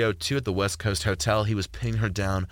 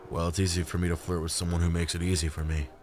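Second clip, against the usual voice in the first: lightly voiced man, lower and flirty; Isaac, smooth flirt; 3 semitones lower than usual. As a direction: flirt back in a low easy voice.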